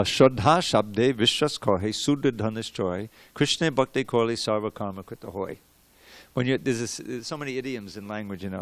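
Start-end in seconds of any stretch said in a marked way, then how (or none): 0.0-5.6 verse recitation. Shown as a demonstration.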